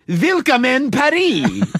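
"willkommen Paris" slow, in a put-on foreign accent; drawn-out mock accent on "willkommen Paris"; slowly hammed-up foreign welcome; mock foreign greeting. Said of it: "even people there don't go".

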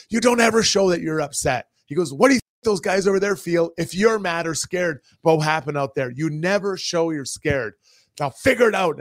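emphatic, mildly heated telling-off; retold scolding. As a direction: imitate a teammate laying down the law. Retold scolding from angry teammate.

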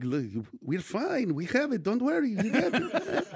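lightly hammed-up Jewish shopkeeper accent; Jewish guy accent. Store owner calming a customer about toilet paper, Jewish accent. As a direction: reassure in a put-on Jewish accent, slow to start. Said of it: "I just did a Jewish guy".

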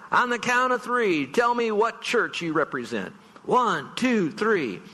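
revving up fifty-five thousand men; rally call. Retold or imitated. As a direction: call out like a hype man to a stadium. Stadium speaker rallying men.

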